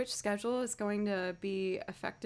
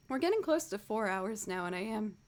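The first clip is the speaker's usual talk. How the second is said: sick voice. Real, not acted. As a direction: voice rough from a cold. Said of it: "as you can hear".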